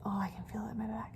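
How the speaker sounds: breathy whisper, fast. Real, not acted. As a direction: whisper as if feeling it. Whispering while lifting chair.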